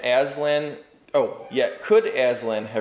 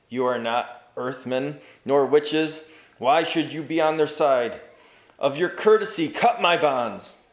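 pleading knight. Acted. Bound knight pleading with the travellers, rising urgency. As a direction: plead with courtly dignity.

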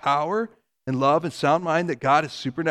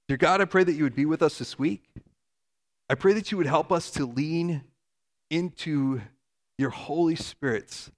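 prayer; 4 dB quieter than usual. Acted. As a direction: pray over the congregation gently. Leads closing prayer.

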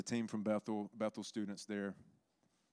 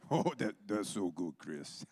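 Sorpresa; slower than usual. Retold or imitated. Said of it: "Sorpresa is just like".

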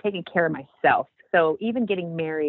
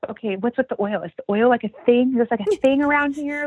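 puzzled; 6 semitones higher, 4 dB louder than usual. Retold or imitated. Asking the woman about oil.

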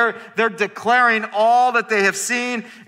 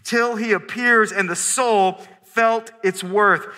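recited hymn line; slower than usual. Shown as a demonstration. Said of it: "in the song we just sang".

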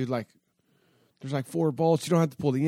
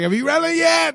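much higher, eager question in Billy's voice; voicing Billy; 6 dB louder than usual. Billy the builder phoning to ask about the motor, voiced much higher and eager. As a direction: play the keen builder checking in.

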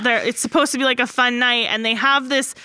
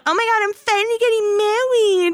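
mock excitement; 9 semitones higher than usual. Mocking bride's excitement before wedding.

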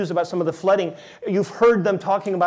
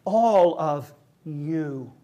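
"All of you" drawn out very slowly, ALL held long; stress on ALL; much slower than usual. Shown as a demonstration. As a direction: lean on "All" and stretch every word. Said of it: "he makes it very clear".

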